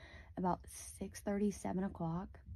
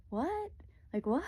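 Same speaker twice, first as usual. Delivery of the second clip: shocked what; 7 semitones higher than usual. Retold or imitated. Shocked that mom knows the man.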